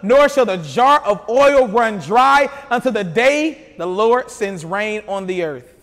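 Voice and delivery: slow, stately Bible reading; scripture reading. A narrator's reading. Preacher reads God's promise to the widow, scripture reading. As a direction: proclaim the promise deliberately, word by word.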